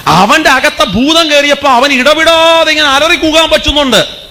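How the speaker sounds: ഇടവിടാതെ stretched out long and high; drawn-out emphasis. Shown as a demonstration. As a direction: raise the pitch and hold ഇടവിടാതെ in one long, sustained cry. Preacher dramatizes the ceaseless crying out.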